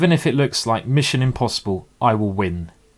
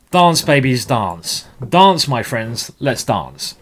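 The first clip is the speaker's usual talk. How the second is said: urging dance; 5 dB louder, slower than usual. Acted. Urging his knights to dance.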